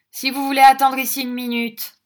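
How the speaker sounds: affable. Acted. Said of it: "de l'air le plus affable".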